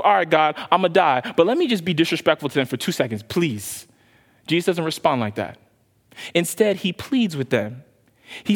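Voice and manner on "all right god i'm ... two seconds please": mock defiant aside. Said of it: "I'm gonna say to myself".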